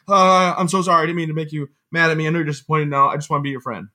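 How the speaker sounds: a hint of a child begging forgiveness; sheepish little kid. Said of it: "felt like such a little".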